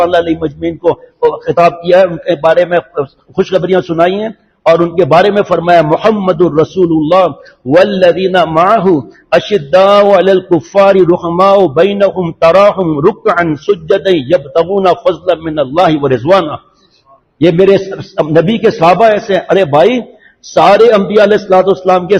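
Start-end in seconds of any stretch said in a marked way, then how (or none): 5.8-16.5 slow, drawn-out Arabic recitation; Quran recitation. Acted. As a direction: recite the verse slowly and measuredly, stretching the long vowels. (قرآنی آیت کی ٹھہر ٹھہر کر تلاوت)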